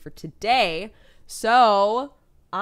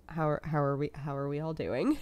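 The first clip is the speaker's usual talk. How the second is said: awkward laughing greeting; 4 semitones lower, 4 dB quieter than usual. Retold or imitated.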